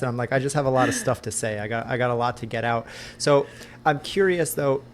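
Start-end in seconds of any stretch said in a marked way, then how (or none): 0.3-2.9 fast talking. Retold or imitated. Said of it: "Everyone says I talk really fast".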